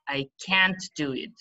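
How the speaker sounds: "can't" given full weight; stress on CAN'T. Shown as a demonstration. Teacher models a negative sentence, stress on can't. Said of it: "we stress when it is negative".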